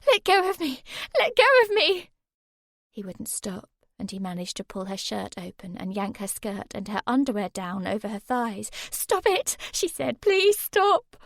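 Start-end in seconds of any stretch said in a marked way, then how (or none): 0.1-2.1 high, loud frantic repeated yell; screaming. A narrator's reading. Girl screaming while attacked. 8.9-11.1 high loud begging; higher louder pleading shout; desperate shout. A narrator's reading. Girl begging attacker.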